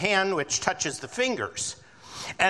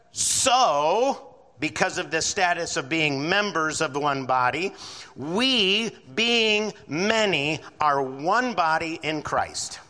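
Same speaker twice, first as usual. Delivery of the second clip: preaching; slower than usual. Real, not acted. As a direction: proclaim it, stretching the words. Preaching scripture with force.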